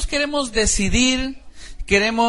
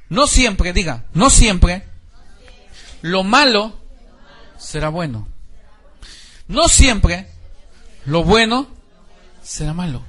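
loud, slow repeat-after-me lines; call and response; 4 dB louder, slower than usual. Shown as a demonstration. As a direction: lead the congregation to repeat each phrase. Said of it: "Diga conmigo".

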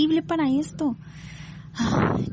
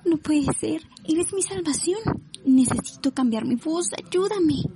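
amazed plea; 5 semitones higher than usual. Acted. Acted plea to the genie.

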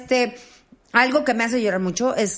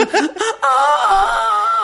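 high, loud teary squeal; squealing cry-laugh; 9 semitones higher, 6 dB louder than usual. Retold or imitated. Imagining ten puppies, loud teary squeal. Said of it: "Ponme perritos".

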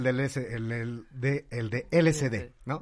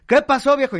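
wife voice; 10 semitones higher, 8 dB louder than usual. Acted. Wife answers in joke.

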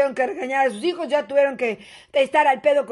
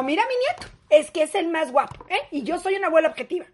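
doting grandma; faster than usual. Acted. Grandma bragging about grandson.

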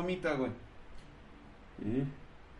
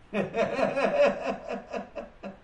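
bright high laugh; 6 semitones higher than usual. Real, not acted. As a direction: burst out laughing. Risa tras despertar. (risa alegre)

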